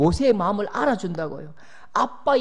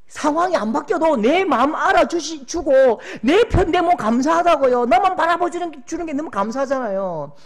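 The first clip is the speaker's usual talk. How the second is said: loud, high impassioned preaching; preacher crying out gratitude to the congregation; fervent preaching; 7 semitones higher, 7 dB louder than usual. Real, not acted. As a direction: preach it with full fervour. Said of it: "preacher at full force".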